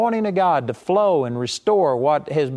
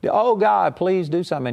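imitating people begging God; pleading prayer; 4 semitones higher than usual. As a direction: mimic a desperate begging prayer. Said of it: "most people will go to God".

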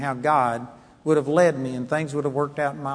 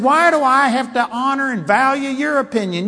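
retold angry retort; 8 semitones higher, 4 dB louder than usual. Retold confrontation.

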